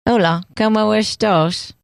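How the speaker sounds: slow British-tinged Spanish, Caine-style; Michael Caine accent. Shown as a demonstration. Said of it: "You do sound like Michael Caine".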